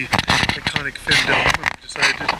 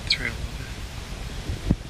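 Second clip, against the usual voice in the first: whispering; 5 semitones lower, 6 dB quieter, slower than usual. Real, not acted. Quiet aside near the deer.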